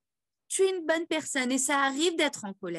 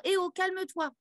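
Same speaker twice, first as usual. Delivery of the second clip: soothing the body; 8 semitones higher than usual. Shown as a demonstration. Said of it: "on a besoin de rassurer le corps".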